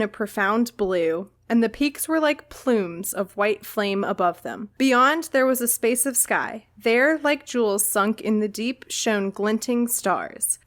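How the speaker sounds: calm book reading of a descriptive passage; lightly read-aloud narration. Acted. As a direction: read the scene gently, like a storyteller.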